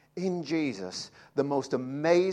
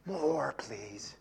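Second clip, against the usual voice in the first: put-on childlike whisper; 4 dB quieter than usual. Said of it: "I want more".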